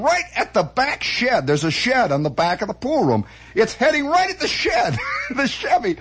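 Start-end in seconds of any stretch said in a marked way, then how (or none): 3.5-6.0 excited. Real, not acted. Excited climax of the story.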